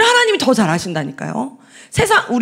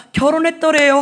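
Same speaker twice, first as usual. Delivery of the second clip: storyteller ending; 4 semitones higher than usual. Retold or imitated. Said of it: "하고 구연동화가 끝나잖아요".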